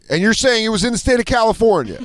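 exaggerated sceptical questioning; mock interrogator. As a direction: play a valet absurdly double-checking. Playing dim interrogating valet.

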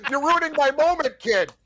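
imitating the coach. Co-host mimicking the coach teasing his crying son, hammed-up. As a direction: play the coach scolding his son in jest. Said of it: "he goes to the kid".

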